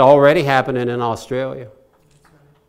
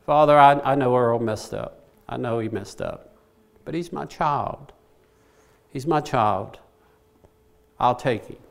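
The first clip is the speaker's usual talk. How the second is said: Jesus; 3 semitones lower than usual. Acted. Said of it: "what he's telling the Father".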